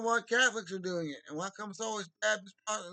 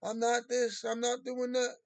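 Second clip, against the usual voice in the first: mock denial; 5 semitones higher, 4 dB louder than usual. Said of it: "I lie to you like that".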